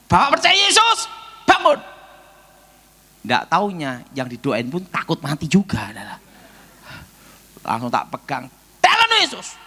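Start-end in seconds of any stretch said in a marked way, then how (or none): 0.1-1.8 high, loud call to rise; bold command. Retold or imitated. Preacher commanding the bedridden man to get up, high and loud. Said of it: "Saya pikir". 8.8-9.6 high, loud proclaiming; commanding prayer. Retold or imitated. Preacher laying hands on the patient, high loud proclamation.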